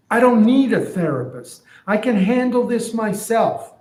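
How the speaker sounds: donkey brushing off help; defiant donkey. Retold or imitated. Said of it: "So here's what I'm imagining".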